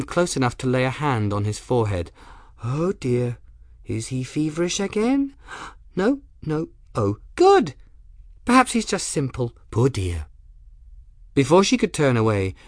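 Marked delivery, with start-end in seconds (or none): 2.6-10.3 put-on high, fluttery dotty girl; fussing odd girl. Young woman feeling the patient's forehead, high fussing chatter. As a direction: fuss aloud in a high voice, sinking on the last words.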